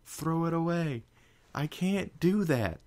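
high, loud frantic cry. Acted. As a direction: shout it in a panic. Frantic argument about door.

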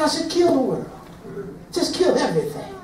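softly voiced Father, murmured; hushed voice of God. Preacher voicing the Father to church, quietly.

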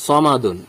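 সমাদুন opening on rounded "saw", then "maa-dun"; thick first syllable in সমাদুন; heavy pronunciation. Shown as a demonstration. Teacher reading the example word, heavy rounded first syllable in সমাদুন. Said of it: "এখানে মোটা করে উচ্চারণ করতে হবে".

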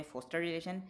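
'foster' with a small British O; short O in 'foster relation'. Shown as a demonstration. Teacher lists three versions, short O in 'foster relation'. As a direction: keep foster's O short. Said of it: "तीन तलफ़ुज़ होगा इस word के".

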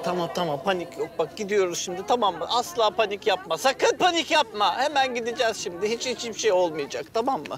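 reassuring. Real, not acted. Calming the stung friend.

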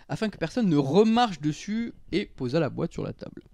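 lively storytelling read-aloud; story narration. A narrator's reading. Friend reads his New Year's tale to co-hosts, lively narration. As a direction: tell a comic anecdote from a written text.

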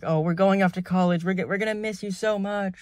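put-on sugary farewell; lightly mock their fake affection; patronizing pity friend. Pair leaving for college, mock patronizing. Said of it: "like, a patronizing, like, pity friend".

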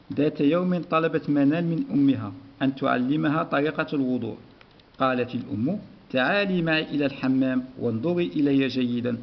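measured read-aloud of a lesson text; teacher reading a story to the class. Acted. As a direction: read the passage clearly for pupils.

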